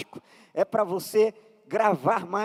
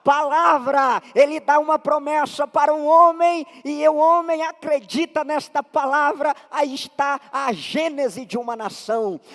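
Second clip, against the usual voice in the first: emphatic sermon delivery; preaching; 2 semitones higher, 3 dB louder than usual. Acted. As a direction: drive the point home to the congregation. Preaches with rising force.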